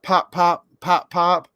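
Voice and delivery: short, separate popping words; cork popping. Acted. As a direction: pop it like a cork. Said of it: "He can sound like a cork".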